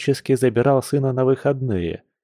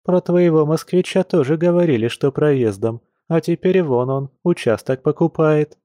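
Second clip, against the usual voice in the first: chatty village shopgirl, complaining; a lightly voiced gossipy friend; lively young woman; 6 semitones higher than usual. Olya's character voice, gossip.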